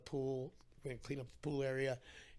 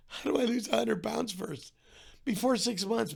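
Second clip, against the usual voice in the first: higher, louder, disbelieving cry; exasperated outburst; 7 semitones higher, 6 dB louder than usual. Retold or imitated. Patient told to lose a hundred pounds, exasperated outburst. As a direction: throw the question up in despair. Despairing at impossible goal.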